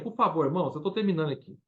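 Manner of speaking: normal talking voice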